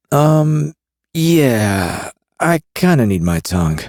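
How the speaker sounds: a queasy smuggler; Carrion voice. A narrator's reading.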